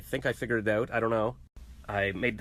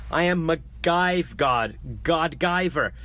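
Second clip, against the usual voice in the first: megalomaniac rant; 3 semitones higher than usual. Pretend. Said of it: "megalomaniac rant".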